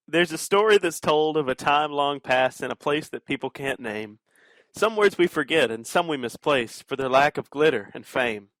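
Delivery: measured bardic verse reading; rhyming tale recitation. Pretend. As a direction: recite it as a rhymed prologue.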